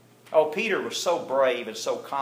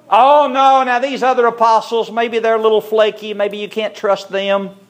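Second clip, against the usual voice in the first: higher, louder, protesting loyalty; indignant protest; 7 semitones higher, 7 dB louder than usual. Acted. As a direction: Peter insists hotly that he is different. Peter protests his loyalty.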